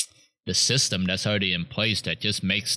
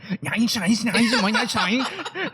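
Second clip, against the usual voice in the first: much higher, laughing mock Asian accent; 13 semitones higher, slower than usual. Imitating his friend's bad Asian accent, high and laughing. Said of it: "that's what you sound like".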